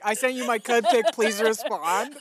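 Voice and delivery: laughing through a mock text; giggling mock message.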